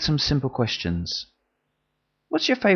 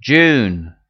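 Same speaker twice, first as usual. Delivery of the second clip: loud chorus shout "June."; group repeating after leader; 2 semitones lower, 6 dB louder than usual. Pretend. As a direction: class chants back in unison.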